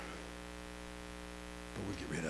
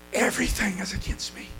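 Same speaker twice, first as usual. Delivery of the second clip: despairing quote. Retold or imitated. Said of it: "His statement was simply this".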